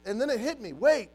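high, loud, building retelling; dawning realization. Retold or imitated. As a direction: pile up the facts as they click. Reliving his sudden realization.

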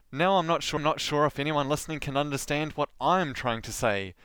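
ordinary delivery

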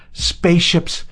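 high, loud shout of joy; first burst of a joyful shout; joyful howl. A narrator's reading. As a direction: yell it out in pure elation. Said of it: "he howled in English".

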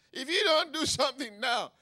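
loud, high ultimatum to God; urgent plea. Acted. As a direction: press God urgently at full voice. Repeats David's urgent plea.

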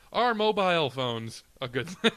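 a light mock British accent on the question; mock British reading of the question. Shown as a demonstration. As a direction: read it like a posh Brit, half joking. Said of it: "read it in my British tone".

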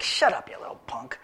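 put-on hissed whisper at the kid brother; older brother whispering at the younger one to shut up. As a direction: whisper it with scorn. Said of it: "You're like".

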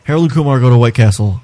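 quick full title read; fast full title. Shown as a demonstration. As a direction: rattle off the title. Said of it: "Just say it".

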